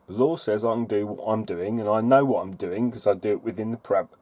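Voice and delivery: talking through hiccups; suppressing hiccups. Real, not acted. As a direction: hold back a hiccup mid-sentence. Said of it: "I've got hiccups".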